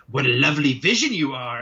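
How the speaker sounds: lightly voiced, creepy compliment; a hint of a hypnotic creep; mock smooth-talking admirer; imitated creepy admirer. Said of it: "he sounds like he's trying to hypnotize her".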